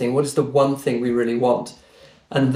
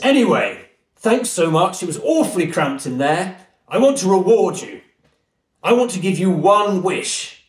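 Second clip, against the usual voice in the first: a lightly voiced booming English genie granting a wish; 5 semitones higher than usual. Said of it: "he's got this big booming voice".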